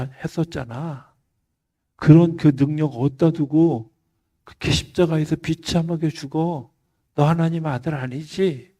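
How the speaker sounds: retold crowd's scornful heckling; mocking jeer. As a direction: jeer up at him, drawing out the endings. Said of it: "조롱해요".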